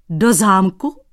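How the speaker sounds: yelp. Acted. Cobbler yelps at the painter's castle plan, astonished yelp. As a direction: squeal it in disbelief. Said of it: "Vyjekl Dratvička".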